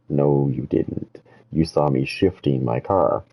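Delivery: slow, soft, talking down to him; condescending. Retold or imitated. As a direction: spell it out like to a child, slowly. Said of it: "treating him like he was retarded".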